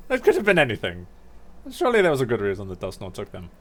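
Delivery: lightly voiced bird, quick delivery; Chatot. Player reading Chatot's excuse about Dusknoir, lightly voiced quick bird. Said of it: "And Chat Tot's like".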